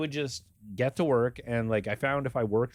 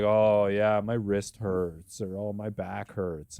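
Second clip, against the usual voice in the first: whiny mock complaint; 2 semitones lower, slower than usual. Mocking the young coworker's complaints.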